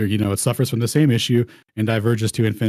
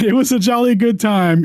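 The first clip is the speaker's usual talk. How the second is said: mock English accent; 11 semitones higher, 6 dB louder than usual. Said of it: "my best English accent".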